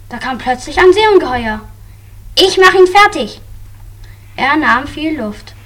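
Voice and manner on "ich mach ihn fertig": high, loud fighting shout; battle cry. Acted. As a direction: shout it as you charge in. Hero charges sea monster.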